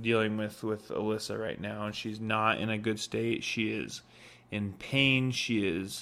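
grave, understated warning about a patient; most serious voice. Retold or imitated. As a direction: break hard news seriously, with weighty pauses. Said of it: "in the most serious voice".

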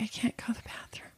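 barely a breath, whispered from the floor; faint whispered plea; weak whisper. Retold or imitated. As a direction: whisper it like you have no strength left. Collapsed on bathroom floor, calling weakly.

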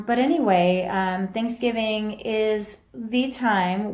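echoey room; speaking in a reverberant room; big hall echo. Real, not acted. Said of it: "I apologize for the echoing in the room".

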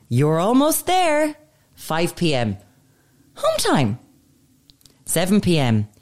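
reading bottle slogans in a sing-song patronising voice; mock the bottle's chirpy timestamps; reading out the water bottle's patronising slogans, mocking; mock condescending bottle. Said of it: "condescending fucking water bottles".

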